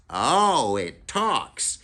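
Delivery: put-on a smart kid snapping back; Freak's quip. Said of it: "and he goes".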